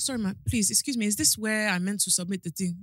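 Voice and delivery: lightly put-on Nigerian accent for a polite request; polite Nigerian-style accent. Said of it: "I even spoke like this, not proper, my normal accent".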